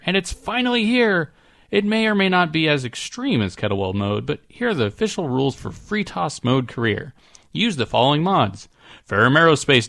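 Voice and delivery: lively read-out, lifted at the start; letter read aloud. Acted. Podcast host reading a listener's mod rules, lively read-aloud. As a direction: read it out like a list of official rules.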